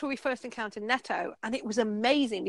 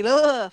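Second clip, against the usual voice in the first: disgusted ugh; 6 dB louder than usual. Retold or imitated. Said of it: "the reaction seemed a bit, a bit overly".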